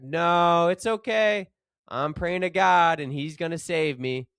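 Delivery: a hint of a calm, faithful stranded man; stranded man shouting back. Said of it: "The stranded fellow shouted back".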